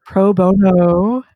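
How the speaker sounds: "Pro bono." said slowly, each syllable clear; careful pro bono. Shown as a demonstration. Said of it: "Did I say that right?".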